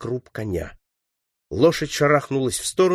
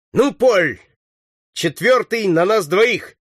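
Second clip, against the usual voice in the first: high, loud, drawn-out call; rally your shooting partner; eager shout; 8 semitones higher, 5 dB louder, slower than usual. A narrator's reading. Leader to partner sharing the next target, shouting. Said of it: "крикнул Сорвиголова".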